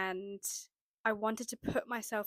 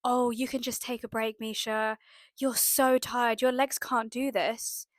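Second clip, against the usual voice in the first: tempting inner voice; 4 dB louder than usual. Retold or imitated. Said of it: "intrusive thoughts kept coming up".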